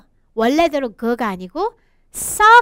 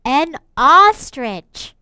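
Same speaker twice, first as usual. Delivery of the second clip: slow model for repeating; 3 dB louder, much slower than usual. Shown as a demonstration. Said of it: "선생님이랑 따라해볼게요".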